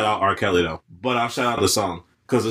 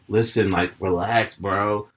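chill bro relax; 4 semitones lower, slower than usual. Shown as a demonstration. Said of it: "Tell me what sounds actually better".

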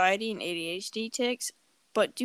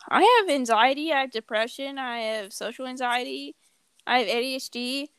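mock classmate; 4 semitones higher than usual. Classmate listing conditions voiced.

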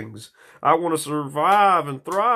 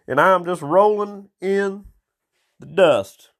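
louder, higher rant at the cat; answering the cat, talking fast and loud; mock rant to the cat; 5 semitones higher, 4 dB louder than usual. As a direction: fire it back at the cat, worked up. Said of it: "And I'm like".

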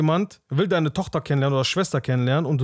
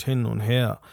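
ordinary delivery

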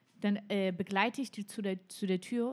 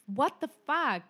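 higher, stunned disbelief; incredulous; 6 semitones higher, 3 dB louder than usual. Retold or imitated. Telling her friend about the police, stunned disbelief. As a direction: throw it out in disbelief. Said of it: "ich so".

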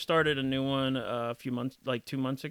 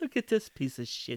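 softer, badly done Asian accent sliding into Russian; muddled Asian-Russian accent; 5 dB quieter than usual. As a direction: attempt a mock Asian accent, nearly Russian. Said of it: "almost like a Russian accent".

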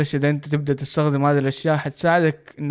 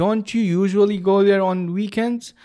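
slow model sentence; 5 semitones higher, much slower than usual. Shown as a demonstration. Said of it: "فأنا قلتها don't you".

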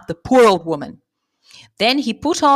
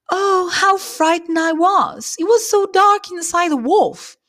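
crying out; 11 semitones higher, 3 dB louder than usual. Acted. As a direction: burst out after the fright.

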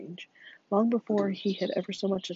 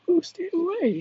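sleepy groan; 11 semitones higher, 7 dB louder than usual. A narrator's reading. Boy half asleep on the bus, groaning. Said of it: "he groaned, half asleep".

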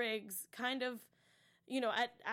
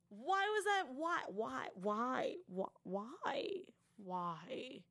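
fading why; much slower than usual. Real, not acted. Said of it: "repeated why, fading".

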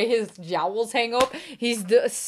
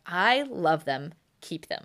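slow, softer, deadpan handoff; imitating friend; 3 semitones lower, 4 dB quieter, slower than usual. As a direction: drag it out then drop to nearly nothing. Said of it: "You were like".

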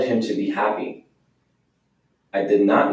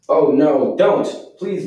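higher, louder pleading cry; pleading yell; 4 semitones higher, 3 dB louder, slower than usual. Acted. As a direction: beg him not to do it. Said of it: "I yelled".

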